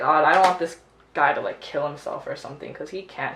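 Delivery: ordinary talk, nothing marked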